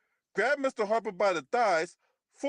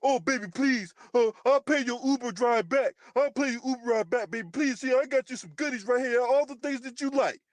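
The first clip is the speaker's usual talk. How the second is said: mock pleading lover; 2 semitones higher than usual. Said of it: "was that what you used to convince him".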